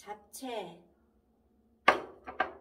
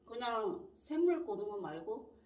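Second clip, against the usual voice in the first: chewing between words; talking around food; mouth partly full; 3 semitones lower, 3 dB louder than usual. Real, not acted. Seen 3: Lips pressed, chewing-like between words early; later just talking, no food.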